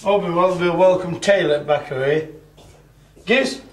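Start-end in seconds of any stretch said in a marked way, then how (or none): 3.2-3.6 very high, squeaky coo to a pet. Real, not acted. Talking to his dog.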